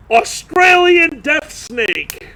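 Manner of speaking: slow, high ominous reveal; dramatic announcement. Acted. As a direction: drag out Australian death snake. Dramatic story climax.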